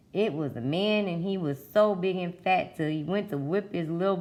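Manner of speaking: put-on folksy southern storytelling accent. Teller swapping tall tales with townsfolk, southern accent. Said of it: "Where do you think that accent comes from".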